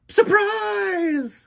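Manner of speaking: high, loud shout; yelled surprise. A narrator's reading. Otis jumping out at Sidney, a high loud yell. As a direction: leap up and shout it out. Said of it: "jumped up and yelled".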